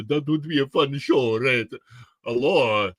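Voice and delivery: silly put-on vampire accent; hammy accented vampire chatting; idiotic vampire. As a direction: keep up the cartoon vampire voice. Stays in the vampire voice.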